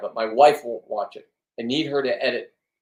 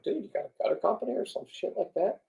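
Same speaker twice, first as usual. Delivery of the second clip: higher, half-whispered disbelief at a rich guy; mock disbelief, raised voice; incredulous mock dude; 8 semitones higher than usual. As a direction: play the baffled buddy asking why he's out here. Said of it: "I'm like".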